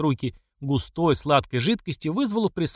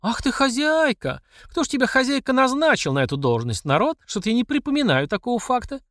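put-on scornful old mother; 10 semitones higher than usual. Mamasha mocks the self-styled boss, high and scornful. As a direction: sneer the word хозяйка back at her.

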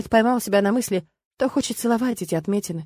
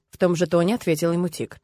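ordinary delivery

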